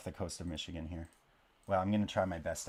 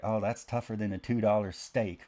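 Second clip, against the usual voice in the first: imitated Oklahoma twang, punched a bit louder; goofy Oklahoma accent; 2 semitones higher, 6 dB louder than usual. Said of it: "that goofy accent".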